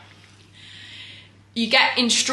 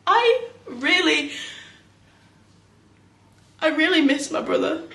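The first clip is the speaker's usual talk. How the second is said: soft, halting admission of loss; quiet grief; 3 semitones higher, 5 dB quieter than usual. Acted. Sister admits she misses her dead brother, quietly grieving.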